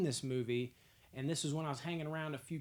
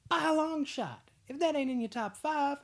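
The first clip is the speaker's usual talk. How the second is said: much higher and louder, all in; fired-up emphasis; 12 semitones higher, 6 dB louder than usual. Real, not acted. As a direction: push it up hard like a hype man. Hyping his ranking to viewers.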